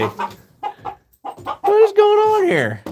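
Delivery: high, slow, loud yell at chickens; exasperated yell. Real, not acted. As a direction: holler in disbelief at the birds. Yelling at chickens.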